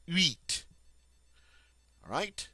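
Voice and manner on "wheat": wheat said as French huit with a vowel start, not English wheat. Shown as a demonstration. Teacher correcting students' English-sounding huit. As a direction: show huit beginning on the U vowel. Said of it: "starts with a vowel sound".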